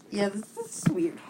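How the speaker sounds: whispered aside. Real, not acted. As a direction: breathe it, no voice. Startled by a weird meme.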